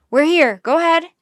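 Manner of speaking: loud, high-pitched radio reply; urgent shout. A narrator's reading. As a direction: shout back into the receiver. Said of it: "he shouted".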